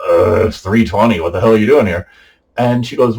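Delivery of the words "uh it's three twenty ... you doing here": louder, groaning mock protest; retold exasperation. Woken son to his mother at night, retold exasperation. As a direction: act out being woken and fed up.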